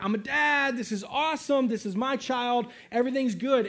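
mock excited. Imagined Uriah thrilled at fatherhood.

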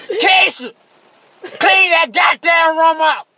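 high, loud, slow mock yell; imitating an angry mother shouting; mama yelling. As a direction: holler it like mom from downstairs. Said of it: "your mama yelling at you".

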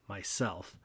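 barely audible, breathed out; soft whisper. A narrator's reading. Narrator gives the lion's third answer, whispered softly. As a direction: hush it so it can hardly be heard. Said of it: "whispered so softly you could hardly hear it".

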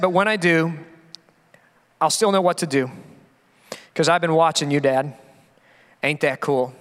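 touched, halting lyric reading; getting emotional. Real, not acted. Father reads the son's closing words to congregation, getting emotional. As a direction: let each phrase settle, pausing between them. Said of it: "I may get emotional".

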